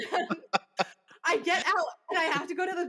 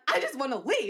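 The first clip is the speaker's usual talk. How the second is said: mildly insistent, slightly raised; acted-out plea, a touch more forceful; retold insistence. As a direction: restate it with mock exasperation. Retold argument escalates, repeated plea.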